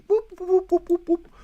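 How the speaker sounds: very high quick whoop; Zoidberg squeal. Retold or imitated.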